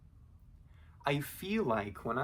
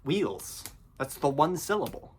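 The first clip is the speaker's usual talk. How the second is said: insistent correction; 3 semitones higher, 4 dB louder than usual. Retold or imitated. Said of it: "And I'm like".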